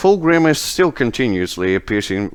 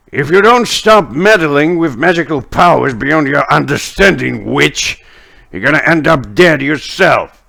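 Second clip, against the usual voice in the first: lightly voiced stern warning; slightly raised, emphatic scolding; Fulgrim; 4 semitones higher, 3 dB louder than usual. Character warning a meddling witch, lightly acted stern voice. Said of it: "you hear the voice of Fulgrim".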